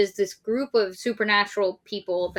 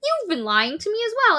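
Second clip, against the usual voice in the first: shrill high shouting, much louder; hammed-up teen meltdown; 14 semitones higher, 7 dB louder than usual. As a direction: escalate into a mock hysterical screech. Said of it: "then she's like".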